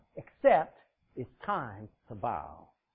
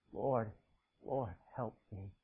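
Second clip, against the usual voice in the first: much lower, much softer, slow plea; bow down and ask softly; a broken woman quietly pleading with Jesus; humble plea; 7 semitones lower, 7 dB quieter, slower than usual. Acted.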